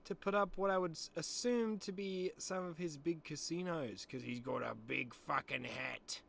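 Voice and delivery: hammed-up Sass commentary. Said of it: "switching between my normal voice and the fucking Sass, mate".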